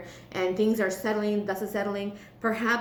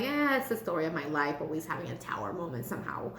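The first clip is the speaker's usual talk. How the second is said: low, lightly acted resignation, trailing off softer; mild so-it-goes grumble, getting quicker and quieter; weary resignation; 5 semitones lower, 4 dB quieter, faster than usual. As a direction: voice a resigned listener, dropping in pitch. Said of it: "I'm hearing you, Scorpios, like".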